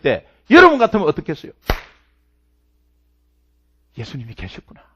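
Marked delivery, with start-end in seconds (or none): 4.0-4.8 very soft, low murmur of realization; awed hush. Acted. Preacher voicing Paul's relief, barely audible. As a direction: breathe it like a man who finally understands.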